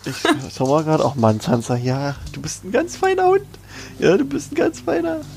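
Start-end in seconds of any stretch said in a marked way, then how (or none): 2.3-5.2 high sweet dog-praising voice; talking to a dog. Real, not acted. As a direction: coo at the dog, pitched way up. Speaker turns to dog Sansa.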